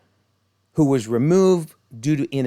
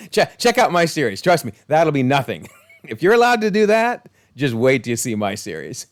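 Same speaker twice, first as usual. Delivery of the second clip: gleeful boasting; 2 semitones higher, 4 dB louder than usual. Retold or imitated. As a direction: brag like an actor itching to top the scene. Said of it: "He's like".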